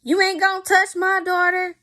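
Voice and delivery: high, mock-indignant mother; imitating the mama. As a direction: squeak it out like a protective mom. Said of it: "The mama like".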